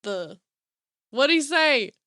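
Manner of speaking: lightly imitated redneck country accent; redneck boy. Redneck boy reciting creation, imitated country accent. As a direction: mimic a redneck kid, halting over the words. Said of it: "redneck little boys".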